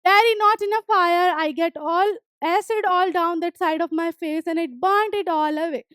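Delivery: reading the story text slowly, word by word; slow reading aloud. Acted. Teacher reading the story aloud to students, slow and clear. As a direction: read each English line slowly and clearly for the class.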